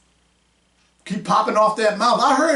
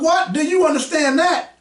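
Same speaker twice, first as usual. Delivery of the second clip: mocking her lip; 8 semitones higher than usual. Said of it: "And now she lipping up".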